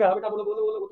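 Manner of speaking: quick repeated coaxing; encouraging. Acted. Teacher helping Bholi say her name, encouraging. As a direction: keep urging the child to speak. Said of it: "थोड़ा encourage कर रही है".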